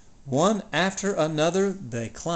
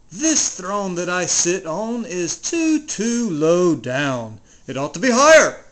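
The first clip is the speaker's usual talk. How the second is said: frowning king Yertle. Acted. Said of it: "he said with a frown".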